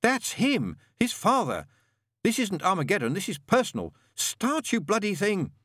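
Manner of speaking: high, loud shout over the roaring wind. A narrator's reading. Crowley yelling over the wind at the Jeep, loud and frantic. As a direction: yell it above the noise, urgent. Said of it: "he shouted above the noise of the wind".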